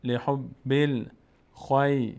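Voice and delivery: slow, drawn-out chanted Arabic recitation; slow Quran recitation. Shown as a demonstration. Teacher slowly reciting the verse for the student, chanted. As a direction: stretch every syllable as in tajweed. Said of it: "teacher recites verse".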